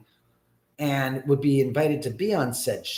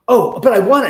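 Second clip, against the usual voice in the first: higher, louder mock whine; 7 semitones higher, 10 dB louder, faster than usual. Lindsay pleading to keep the note, mock whine. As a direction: imitate her childish pleading.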